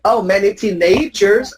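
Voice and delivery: imitating students' teen-AY-jers; mimicked student error, teen-AY-jers; mis-stressed teenagers. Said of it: "students of mine say something like".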